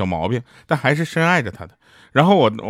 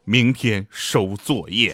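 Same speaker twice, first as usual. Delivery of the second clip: very slow, lower mock announcement; deliberate pronouncement; 4 semitones lower, much slower than usual. Mock teacher announcing homework collection, slow and ominous. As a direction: drop the pitch and measure out each word. Teacher's dreaded five-word order.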